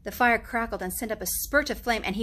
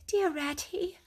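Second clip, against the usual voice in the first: lightly higher timid mole; Mole's voice; 9 semitones higher, slower than usual. A narrator's reading. Mole timidly asks Rat about Toad. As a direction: ask hoping for reassurance.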